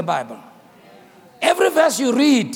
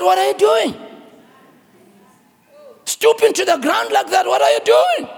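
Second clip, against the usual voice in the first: astonished king; 7 semitones higher than usual. Acted. King to the bowing boy, astonished and rising. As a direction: ask it in growing amazement.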